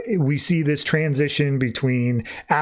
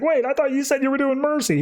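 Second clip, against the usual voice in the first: much higher, pleading mock voice; high-pitched protest; 12 semitones higher, faster than usual. Anton objecting to Spectre's punishment, high mock pleading. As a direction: protest like a cheated victim.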